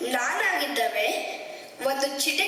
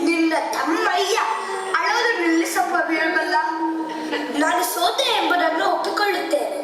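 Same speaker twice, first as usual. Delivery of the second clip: exasperated; 4 dB louder than usual. Acted. Exasperated king gives up.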